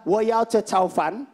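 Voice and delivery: "Wo yao che chao fan" said slowly, syllable by syllable; slow Mandarin phrase. Shown as a demonstration. Comic showing off the Mandarin he learned. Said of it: "Modal pertama adalah".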